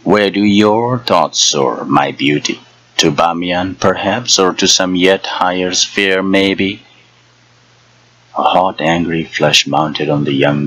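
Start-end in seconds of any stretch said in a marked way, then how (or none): 0.0-6.8 mock the girl gently as an old hag; teasing old hag. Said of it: "chuckling again".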